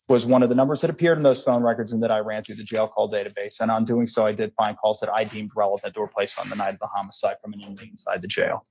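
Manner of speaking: rattling through testimony a little too quickly; too fast. Real, not acted. Witness recounting jail calls to the jury, a little too fast. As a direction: run the details together without pausing. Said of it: "you are speaking a little too fast".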